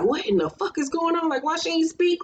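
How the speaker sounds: bewildered retold question; acted confusion. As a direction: imitate someone totally confused. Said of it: "LeBeric was standing there confused".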